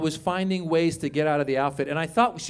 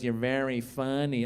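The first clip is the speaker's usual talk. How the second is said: low, soft club-owner impression; lightly voiced older woman, pitched down; Mitzi; 4 semitones lower, 4 dB quieter than usual. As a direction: imitate a quiet, low-talking club owner. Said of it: "That's how she would talk".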